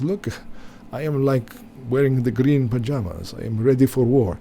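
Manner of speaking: a light, hammed-up Eastern European accent; mock Zelensky accent. Mocking the leader's war clothes for his viewers, lightly put-on Eastern European accent. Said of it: "sounds like some strange Russian vampire".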